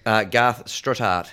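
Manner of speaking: put-on slow, lightly done New Zealand accent. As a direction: drawl the name Kiwi style. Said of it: "in your best New Zealand accent".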